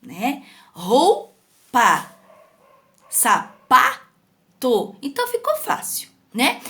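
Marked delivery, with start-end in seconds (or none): 0.7-4.9 ROU in Roupa and PA in sapato punched; slow syllables, "sa-PA-to", "ROU-pa", strong syllable lifted; stressed tonic syllable. Shown as a demonstration. Teacher giving examples of tonic syllables, exaggerated stress. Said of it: "qual que eu pronunciei mais forte?".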